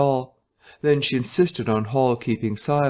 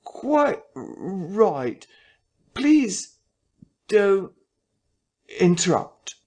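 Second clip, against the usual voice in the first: high, halting, jerky vicar voice; jerking intonation; 8 semitones higher, much slower than usual. Acted. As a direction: force the words out in jerks. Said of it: "with a curious jerking intonation".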